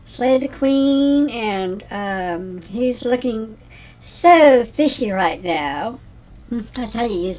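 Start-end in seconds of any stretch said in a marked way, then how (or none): 0.0-1.3 slow, sassy praise. Shown as a demonstration. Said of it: "I'm gonna say". 2.7-6.0 slow, louder sassy compliment. Shown as a demonstration. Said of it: "I'm gonna say".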